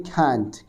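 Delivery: "can't" as khaant, puff of air after the k; accent variant. Shown as a demonstration. Teacher shows a third variant, "can't" said as khant. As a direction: say "can't" with aspirated kh and open a. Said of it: "कुछ लोग बोलते हैं".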